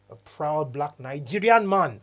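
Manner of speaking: slow, proud Nigerian accent. Shown as a demonstration. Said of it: "I say with Nigerian accent".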